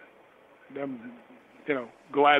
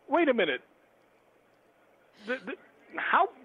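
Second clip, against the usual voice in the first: stammering, much higher mock bewilderment; thrown off guard; 9 semitones higher than usual. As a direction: act out being stunned, halting and high-pitched. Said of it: "I was just to".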